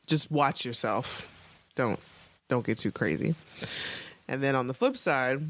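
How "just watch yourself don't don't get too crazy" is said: cautious fatherly warning. Retold or imitated. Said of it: "he's also not like".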